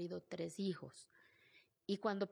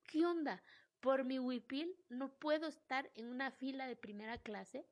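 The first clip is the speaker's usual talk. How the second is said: indignant disbelief; 4 semitones higher than usual. Retold or imitated. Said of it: "Y dije".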